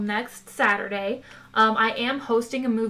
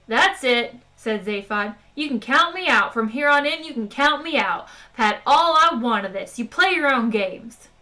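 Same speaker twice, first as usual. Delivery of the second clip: angry; 5 dB louder than usual. Acted. Zaphod angrily quits the game.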